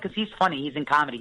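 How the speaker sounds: ordinary talk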